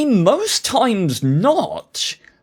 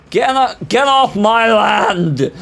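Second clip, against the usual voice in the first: mock farmer yell; 4 dB louder than usual. Yelling at enemy tank.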